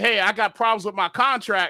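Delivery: ordinary delivery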